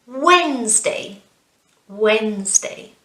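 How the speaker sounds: "Wednesday" as WENZ-day, falling; first-syllable stress. Shown as a demonstration. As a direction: lean on WENZ in "Wednesday", let day fall. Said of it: "it's the first syllable again".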